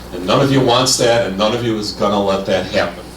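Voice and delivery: winded after a long talk; out of breath. Real, not acted. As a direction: speak short of breath. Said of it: "I'm out of breath".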